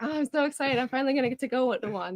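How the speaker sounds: retelling her first Tim Hortons trip, eager; mock excitement. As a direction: gush like a fan finally going. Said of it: "I was like".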